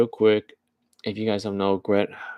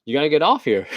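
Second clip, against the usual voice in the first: mock robot echo, higher and louder with a laugh; car repeating it back; 5 semitones higher, 5 dB louder, faster than usual. Robot car mimics the rider, laughing mock voice. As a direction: parrot the line as the car. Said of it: "And it's".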